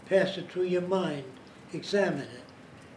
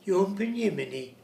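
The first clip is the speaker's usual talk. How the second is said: Swedish pronunciation; 3 semitones higher than usual. Retold or imitated. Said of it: "they pronounce things differently".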